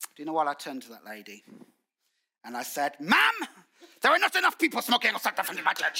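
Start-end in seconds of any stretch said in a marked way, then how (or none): 3.0-6.0 put-on Brighton accent. A pastor retells answering a woman who complained about smokers, in a Brighton accent. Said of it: "I said it in my Brighton accent".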